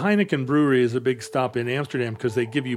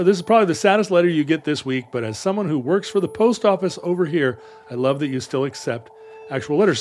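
put-on quicker second try at a posh British accent; faster, slightly firmer British accent; British accent retry. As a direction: have another go at the upper-class British voice. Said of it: "Sometimes I can do it".

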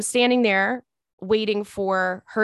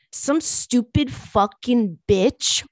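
put-on slurred drunk girl; much slower than usual.

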